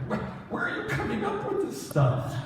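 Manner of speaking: high, breathy laugh through the question; laughing disbelief. Retold or imitated. Baffled reply to Daniel's answer.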